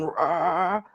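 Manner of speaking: drawn-out energy growl; imitated roar. Telling how the land's energy surged, imitated roar. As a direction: give a brief imitation of roaring energy. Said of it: "all that energy that was going".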